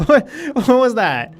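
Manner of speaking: high, slow, startled question; surprised. Real, not acted. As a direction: react in sudden disbelief. Startled by something in game.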